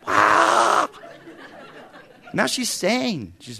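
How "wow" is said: laughing wow. Real, not acted. Laughing exclamation.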